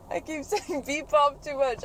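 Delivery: high self-mocking laugh. Real, not acted. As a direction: laugh it off at yourself. Laughs at own repeated word.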